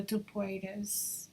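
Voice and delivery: Tu Puedes in an American English accent; gringo accent. Real, not acted. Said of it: "I totally said that with a gringo, um, accent".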